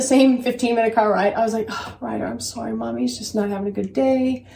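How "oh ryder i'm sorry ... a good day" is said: soft, retold apology to a child; sincere apology. Mom apologizing to son in the car, softly sincere. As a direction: gently own up, voice dropped softer at the start. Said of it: "I'm apologizing to you sincerely".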